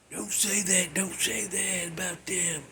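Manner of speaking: under-the-breath aside; hushed aside. Pretend. Aside warning himself off a remark.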